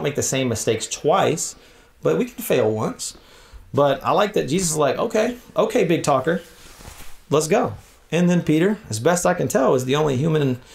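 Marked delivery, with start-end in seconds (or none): 5.0-7.7 teasing challenge. Retold or imitated. Jesus teasing a big talker.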